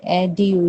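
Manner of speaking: "एडु" as "ed-yoo"; full "yoo" in "एडु"; full U sound. Shown as a demonstration. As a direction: break down "एडु" without a J. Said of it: "यू को पूरा बोलेंगे वो".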